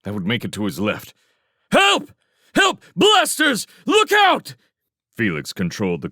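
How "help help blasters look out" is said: very high, loud screamed alarm; panicked warning. A narrator's reading. Scout warns the others about blasters, screaming in panic. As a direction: yell a desperate warning, shrill with panic.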